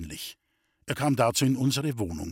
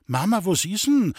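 put-on anxious child's question, high and loud; worried; 7 semitones higher, 5 dB louder than usual. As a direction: ask it with worry. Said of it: "fragte ich besorgt".

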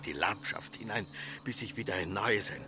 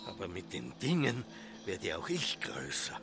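hushed unvoiced whisper; 3 semitones lower, 6 dB quieter than usual. Josef whispers to himself while the mayor accuses him, hushed. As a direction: breathe it out to yourself.

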